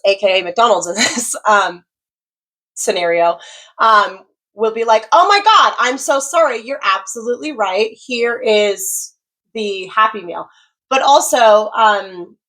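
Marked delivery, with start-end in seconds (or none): 5.1-10.5 a flustered worker owning the mistake; hammed-up apologetic fast-food worker; apologetic server. Restaurant voiced apologizing.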